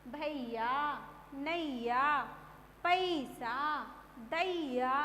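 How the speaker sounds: भैया, नैया with weight on the first syllable; stressed ai syllable. Shown as a demonstration. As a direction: lean on the ai in पैसा, दैया. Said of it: "जोर दे के उच्चारण किया".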